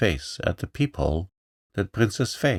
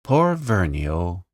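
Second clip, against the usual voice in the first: pitying sigh; 4 dB louder, slower than usual. Acted. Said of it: "sighed the little voice, full of pity".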